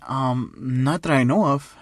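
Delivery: slow, hesitant nervous answer; acted unease, drawn out. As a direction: stall awkwardly, dragging the words. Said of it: "he starts laughing nervously".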